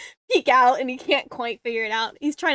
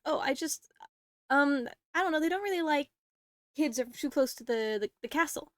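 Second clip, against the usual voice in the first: put-on anxious kid; 3 semitones higher than usual. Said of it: "looking at you anxiously".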